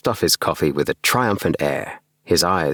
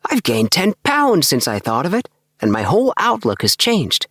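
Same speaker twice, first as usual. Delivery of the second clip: put-on higher, eager young man; bubbling over about his dream house; lifted voice full of enthusiasm; Appleby's voice; 11 semitones higher than usual.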